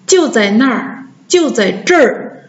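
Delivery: 那儿 and 这儿 each one r-coloured syllable; erhua demo. Shown as a demonstration. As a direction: model curled r on 那儿 and 这儿. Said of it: "或者是我们说".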